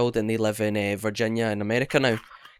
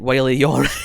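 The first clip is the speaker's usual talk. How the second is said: laughing question; 5 dB louder, faster than usual. Retold or imitated. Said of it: "I was like".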